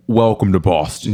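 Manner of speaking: attempted Boston accent, barely there; a failed try at a Boston accent; bad Boston accent. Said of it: "I can't do a Boston accent".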